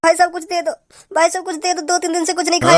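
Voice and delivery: beggar's plea. Acted. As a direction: wheedle for a few coins. Beggar asking for money.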